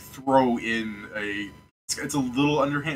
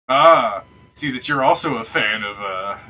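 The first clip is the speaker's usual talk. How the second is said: put-on old gentleman npc. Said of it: "Just like".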